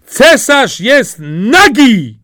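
high, loud, slow shout; crowd calls out. Acted. Whole crowd shouts the emperor is naked, high and loud. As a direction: proclaim it for all to hear. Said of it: "zawołał na koniec cały lud".

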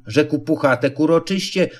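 ordinary delivery, nothing marked

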